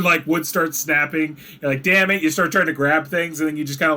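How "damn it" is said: higher, louder acted curse; mock alarm. Game master as the falling dwarf, mock alarm. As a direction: lightly voice a falling dwarf's frustration.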